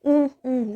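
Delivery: two hammed-up "oon" sobs for the moon; storybook fake crying; mock sobbing. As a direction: play-act the moon boo-hooing for the class. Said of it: "He began to cry".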